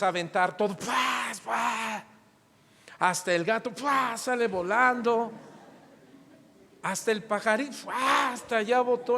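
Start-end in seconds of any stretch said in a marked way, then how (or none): 0.8-2.0 estallidos vocales de cosas que vuelan; golpes imitados. Retold or imitated. Imitates things being thrown in rage. 3.7-4.2 estallido vocal seco; golpe imitado. Retold or imitated. Imitates cat sent flying. 7.7-8.3 soplido explosivo con la boca; lanzamiento imitado. Retold or imitated. Imitates bird sent flying.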